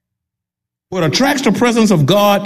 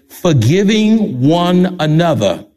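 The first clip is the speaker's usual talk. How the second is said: "forgiving one another" said slowly, each word weighted; underlined emphasis; slower than usual. Real, not acted. Preacher underlining a verse for the congregation, "forgiving one another" slow and emphatic. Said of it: "There it is, underline it".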